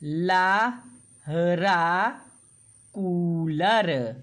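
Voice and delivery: कूलर with a long drawn ऊ, slow; syllable by syllable, stretching कू; long oo in koolar. Shown as a demonstration. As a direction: sound out ला, रा, then a slow कूलर. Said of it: "और का में बड़ा ऊ की मात्रा है".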